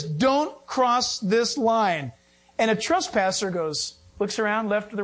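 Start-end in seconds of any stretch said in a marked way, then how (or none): 0.0-2.1 very slow, spelled-out warning; slow warning sign. Retold or imitated. Preacher reading the fence sign, drawn-out slow. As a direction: read the sign out deliberately slow. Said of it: "The sign says".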